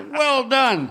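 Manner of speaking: well done through a laugh; laughing congratulation; laughing praise. Retold or imitated. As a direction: say it while laughing. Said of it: "He goes".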